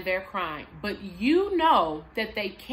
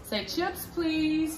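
put-on modeling for child; 6 semitones higher, slower than usual. Shown as a demonstration. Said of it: "You may have to model this".

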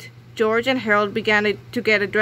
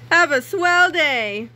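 slow, higher chirpy farewell; nice principal wishing a swell day; cheery principal; 7 semitones higher, 4 dB louder, slower than usual. Acted. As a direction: beam it out sweetly. Principal voice returns.

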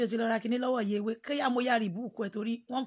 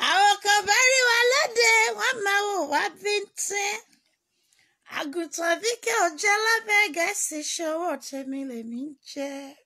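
much higher, loud, mocking boast; high defiant boast; 10 semitones higher, 6 dB louder than usual. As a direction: sing out the boast to the doubters. Acted boastful retort in quote.

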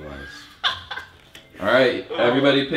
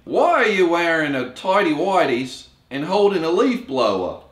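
put-on Australian accent; 5 semitones higher, 4 dB louder than usual. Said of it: "Australian accent round".

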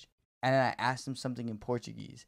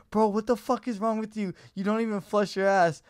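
loud furious rant, pitched higher; angry texter; 7 semitones higher, 7 dB louder than usual. Retold or imitated. Stranger texting about shit in his toilet, loud angry rant. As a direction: tear into him like a disgusted stranger. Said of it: "And they were like".

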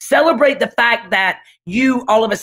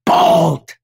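louder, tearful word; 2 semitones lower, 4 dB louder, much slower than usual. Real, not acted. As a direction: let the tears break through. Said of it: "I'm tearing up too".

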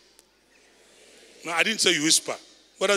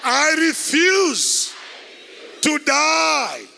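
shouted much higher, slow, every word hammered; holy anger; 7 semitones higher, much slower than usual. Shown as a demonstration. Preacher showing righteous anger at dying like mere men, shouting. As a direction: defy death with a furious shout. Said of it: "I'll allow holy anger to possess me".

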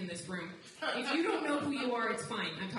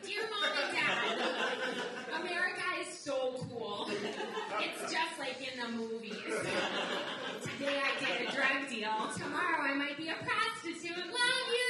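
mock letter home; 4 semitones higher than usual. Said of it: "I was like".

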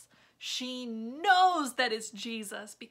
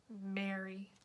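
tender; 3 semitones lower, 7 dB quieter than usual. Acted. Jesus gently speaking her name.

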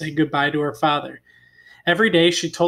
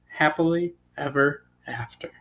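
whispered fairy tale ending. Acted. Reader closes the story for children, whispering. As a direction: breathe the last line as a hush.

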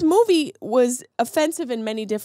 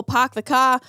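put-on a touch of r-dropping New England accent; mock New England accent. Reviewer mocking an actress's token accent work, mock New England accent. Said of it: "Her New England accent".

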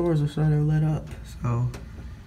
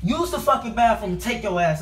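calling out; 7 semitones higher than usual. Real, not acted. Yelling at sister.

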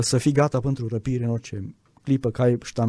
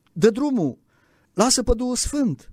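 mock urging; 8 semitones higher than usual. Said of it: "spuneau alții".

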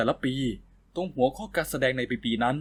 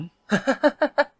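high, gleeful burst of laughter; delighted laugh; 12 semitones higher, 5 dB louder than usual. Acted. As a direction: laugh out, pleased with himself. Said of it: "คนตัวเล็กหัวเราะชอบใจ". (หัวเราะชอบใจเสียงสูง)

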